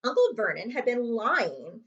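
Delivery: ordinary delivery, nothing marked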